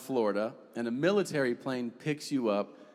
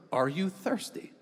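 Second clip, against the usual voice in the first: mock polite guard; 5 semitones higher than usual. Guards' allowed reply mocked.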